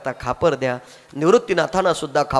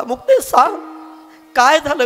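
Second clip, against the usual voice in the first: anguished cry; 10 semitones higher than usual. Acted. Brother cries out in distress.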